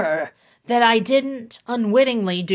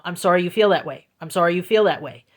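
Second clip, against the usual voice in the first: broken record; 3 semitones lower, much faster than usual. Retold or imitated. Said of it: "The typical broken record technique".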